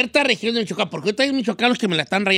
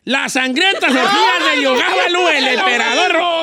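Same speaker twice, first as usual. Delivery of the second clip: higher, louder go at a neutral Spanish accent; effortful, failed attempt at neutral accent; 5 semitones higher, 4 dB louder than usual. Shown as a demonstration. Don Cheto rereads the text for his teacher, attempted neutral accent. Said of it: "Un acento neutral".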